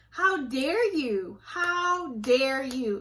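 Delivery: very slow, each word weighed out; slow indignation. Real, not acted. Scolding church manipulators, slow and indignant. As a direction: drag it out in disbelief. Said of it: "I'm trying not to cuss".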